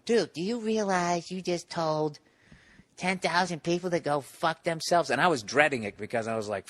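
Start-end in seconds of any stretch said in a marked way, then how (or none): 0.0-5.1 imitating laughing friend. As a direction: stretch it out high, as a friend cracking up would. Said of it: "he was just laughing".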